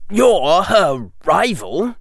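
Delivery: put-on a sly young boy plotting against a rival; Draco voice.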